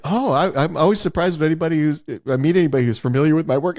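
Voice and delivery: put-on high, quick, modest old voice; lightly voiced humble old man. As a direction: brush off the praise shyly. Old Harryhausen voiced in story.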